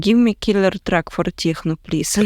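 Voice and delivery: put-on light Russian accent, joking; teasing in a Russian accent. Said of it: "In Russian accent".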